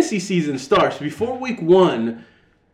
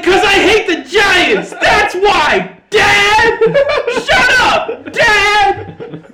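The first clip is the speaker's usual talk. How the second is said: much higher, louder hammed-up fan rant; mock angry yell; 6 dB louder, much slower than usual. Fan snaps at his dad during the game, mock shouting. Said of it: "And I'm like".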